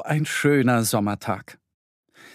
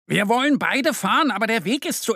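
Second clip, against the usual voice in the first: higher, eager little cub voice; little bear explaining; 8 semitones higher than usual. Acted. Mo explaining the narrow path to the owl, eager.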